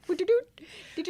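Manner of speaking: sing-song "doo-doo-doo" for two-finger typing; high little mimicked typing sound; imitated typing noise.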